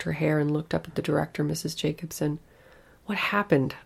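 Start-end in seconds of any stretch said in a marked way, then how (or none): 3.1-3.7 pleading. Acted. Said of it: "I pleaded".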